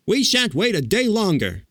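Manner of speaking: high and insistent; indignant Scarecrow. A narrator's reading. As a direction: demand it firmly. Scarecrow demanding.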